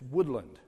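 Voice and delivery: Woodland with stress on WOOD and a reduced "lund"; local pronunciation. Retold or imitated. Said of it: "putting the emphasis on the wrong syllable".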